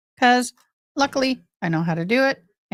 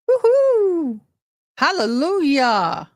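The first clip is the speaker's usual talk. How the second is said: high whoop easing into drawn-out rejoicing; jubilant cheer; 8 semitones higher, 4 dB louder, much slower than usual. Real, not acted. Streamer relieved Facebook finally worked, jubilant high cheer. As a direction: celebrate with a big high whoop.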